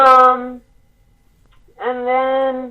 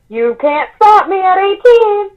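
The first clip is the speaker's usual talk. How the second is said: put-on defiant kid; 8 semitones higher, slower than usual. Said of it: "He's like".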